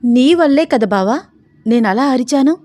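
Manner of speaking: high, loud, peeved retort; mildly cross. A narrator's reading. Sita silently blaming her bava for the scream, mildly cross. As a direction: throw the blame back, a little cross. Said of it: "చిరుకోపంగా చూస్తోంది సీత".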